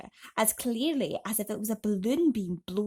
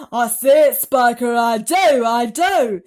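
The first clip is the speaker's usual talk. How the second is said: eager aunt; 4 semitones higher, 16 dB louder than usual. A narrator's reading.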